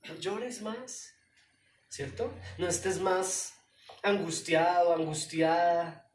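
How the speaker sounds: slow gentle comfort; consoling. Real, not acted. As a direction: soothe the weeping listener. Pastor consoles congregation.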